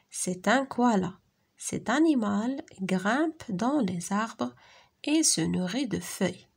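slow, careful classroom French; measured reading, pausing between phrases; dialogue read-aloud. Acted. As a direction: read each phrase clearly for young learners. Reads a lesson dialogue aloud.

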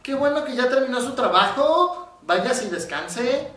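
high, sugary praise with a sting, slowing at the end; sweet words, sour meaning; fake-nice boss. Boss mocking an employee for leaving on time, fake-sweet. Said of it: "Eso es un doble mensaje".

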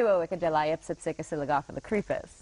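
Suowickadeliopsipsicasilagophilicrepus said quickly as the word reversed; backwards speech. Shown as a demonstration. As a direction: reel off Suowickadeliopsipsicasilagophilicrepus fast, backwards. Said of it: "you can say it backwards".

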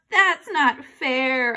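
put-on slow drawn-out childish whine; whined. Boy whining at dad after being overruled. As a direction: stretch it out like a sulky kid. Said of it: "I whined".

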